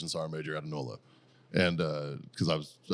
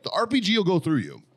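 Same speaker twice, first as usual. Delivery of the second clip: raised, higher retold protest at the commander; half-shouting the warning back, higher; 10 semitones higher, 5 dB louder than usual. Retelling warning the colonel about the RPG, raised voice.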